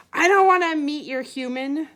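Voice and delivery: snarled. Acted. Big dog refusing to meet the owner, snarling. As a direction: snarl it out with force. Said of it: "the big dog snarled".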